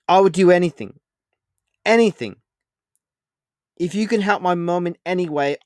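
loud, high pleading; desperate plea. A narrator's reading. Boy pleading to save his mum, desperate. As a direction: beg with everything.

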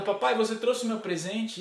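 a hint of an expectant girl; little daughter. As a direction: ask daddy hopefully in a child's voice. Younger daughter asks about present.

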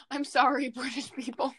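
sorry said through giggles; laughing apology. Real, not acted. Podcaster laughing apology to British listeners. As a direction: apologize while cracking up.

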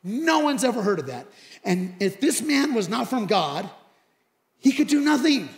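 emphatic, building to a loud finish; retold bold speech. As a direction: argue the case with rising force. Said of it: "so this guy then says this".

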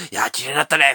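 laughing. Acted. Family member admiring ruins.

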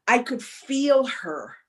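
near tears. Real, not acted. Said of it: "I'm about to cry".

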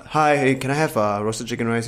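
easy, mildly courteous request to a stallholder; nice tone. Shown as a demonstration. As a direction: politely ask for a dish. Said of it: "have a nice tone".

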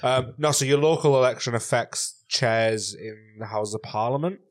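wheezy and breathless after laughing. Real, not acted. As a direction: still wheezing from the laughing fit. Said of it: "I'm really wheezy from how much I just laughed".

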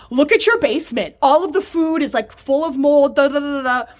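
high mock tirade tailing into nonsense syllables; imitated rant. Retells woman berating partner's filth.

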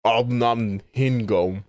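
slow drawn-out nonsense word; Sims gibberish. Pretend. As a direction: stretch out a fake Sim word. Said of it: "the sim language".

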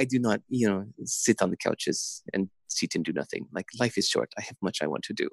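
a hint of French accent, fading quietly. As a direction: echo the athlete in a mild French accent. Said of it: "in her French accent".

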